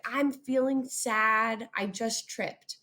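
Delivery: slow, mildly sad telling; a gentle mock-sad example; demo of sad. Shown as a demonstration. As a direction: let a touch of sadness in, slowly. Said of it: "use inflection in our voice to explain how we're feeling".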